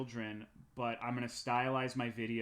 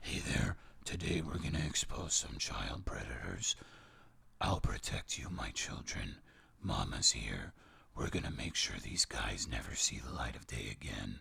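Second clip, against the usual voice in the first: very low, creaky, put-on seductive voice; 14 semitones lower than usual. Mocking a video host who exposes predators, in a fake sexy man voice. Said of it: "he does like this fake sexy man voice".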